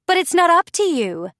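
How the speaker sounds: high, loud annoyed outburst; annoyed snap. A narrator's reading. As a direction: blurt it out, irritated. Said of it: "Millie glares, visibly annoyed".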